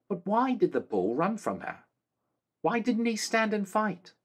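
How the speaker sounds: put-on high, earnest girl's voice; a girl begging to understand; young girl Molly. Molly voiced, high pleading question.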